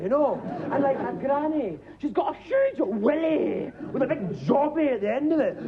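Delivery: ordinary delivery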